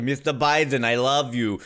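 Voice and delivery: lightly hammed Russian suitor; Russian accent. An attractive Russian wooing the president, mock Russian accent. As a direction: put on a slight Russian accent. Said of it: "attractive Russian comes in and he's all like".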